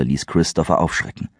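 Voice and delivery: ordinary delivery, nothing marked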